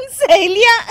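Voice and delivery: high mocking giggle; laughing. Daughter-in-law giggling at mother-in-law's friends. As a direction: giggle at the word.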